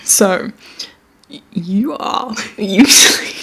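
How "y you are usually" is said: attempted French accent. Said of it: "going with more French".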